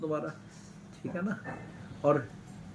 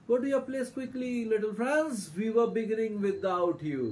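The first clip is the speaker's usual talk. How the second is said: slow, drawn-out read-out of the teacher; teacher calling pupil in; 5 semitones higher, much slower than usual. Acted. Teacher telling a latecomer to take his seat, slowly and simply. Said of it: "M Hemal simply कहते हैं".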